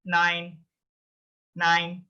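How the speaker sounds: nine with a long "eye" vowel; nine, its middle sounded "eye". Shown as a demonstration. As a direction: model nine slowly for the learner. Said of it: "E I sound".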